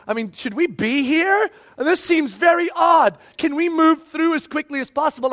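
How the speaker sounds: a touch of jittery, pleading worry; huddled and uneasy, wanting out fast; nervous disciples. Retold or imitated. Nervous disciples voiced in story.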